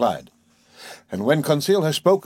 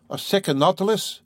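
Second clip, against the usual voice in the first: lifted, wondering ask; surprised question; 8 semitones higher than usual. A narrator's reading. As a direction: sound caught off guard.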